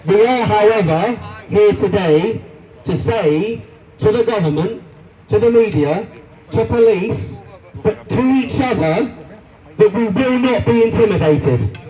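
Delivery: reading a statement aloud. Shown as a demonstration. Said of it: "I'm gonna read it out".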